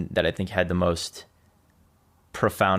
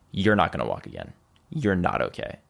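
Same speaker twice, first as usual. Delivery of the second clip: grave quote; 2 semitones lower than usual. Retold or imitated. Quoting what everyone said after the paralysis, grave. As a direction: deliver bad news, understated and grave.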